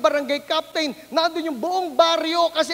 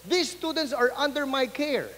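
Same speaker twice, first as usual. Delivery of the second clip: stern principal lecture; 3 dB quieter than usual. Retold or imitated. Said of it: "sinermonan ako".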